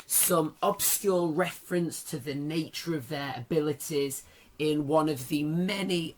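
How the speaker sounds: strained, worn-out voice; hoarse voice. Real, not acted. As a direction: talk through a knackered voice. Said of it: "my voice is knackered".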